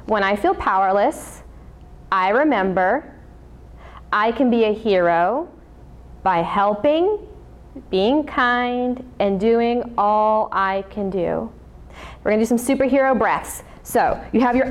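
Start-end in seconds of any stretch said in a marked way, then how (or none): 0.1-11.5 recited affirmation. Shown as a demonstration. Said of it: "let's say that one more time".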